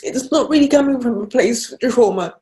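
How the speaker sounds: fighting back real tears as she speaks; real emotion breaking through the words; tearful. Real, not acted. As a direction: voice tight and high with tears, close to crying. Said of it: "Sorry, I get very emotional".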